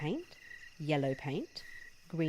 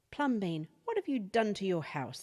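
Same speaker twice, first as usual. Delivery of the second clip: shouted; 3 semitones higher than usual. Acted. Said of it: "the people shouted".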